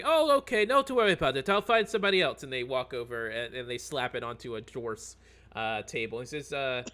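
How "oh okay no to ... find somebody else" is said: higher, deflated NPC voice; disappointed elf. Acted. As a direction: shrug it off as a let-down elf.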